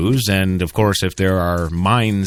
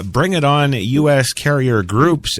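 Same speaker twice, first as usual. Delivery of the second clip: defiant taunt; 4 semitones higher than usual. Retold or imitated. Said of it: "end quote".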